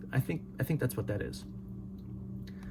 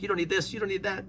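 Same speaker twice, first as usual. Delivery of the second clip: lightly mocking himself; 6 semitones higher, 4 dB quieter, faster than usual. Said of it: "It's when I was like".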